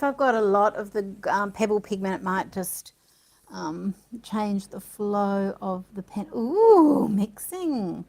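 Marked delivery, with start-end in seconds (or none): 6.3-7.1 delighted ooh. Real, not acted. Inks mixing on the page.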